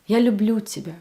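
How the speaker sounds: "люблю" accented, "тебя" falling away; firm "люблю", lighter "тебя"; stronger statement. Shown as a demonstration. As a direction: lean on "люблю" in the middle. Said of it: "This one sounds stronger".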